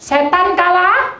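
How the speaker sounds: high, slow, ringing proclamation; exultant chant of the day of the Lord; joyful proclaiming. Retold or imitated. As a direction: lift it up like a praise shout. Preacher exclaims joyful refrain.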